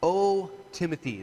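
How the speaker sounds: O stretched slow, firm; weighty O Timothy; emphasis on O. Shown as a demonstration. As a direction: lean into the O slowly. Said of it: "I don't want us to miss the emphasis on that".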